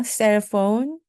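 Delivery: 셀폰 spoken as English cell phone; English loanword. Shown as a demonstration. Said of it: "English word demo".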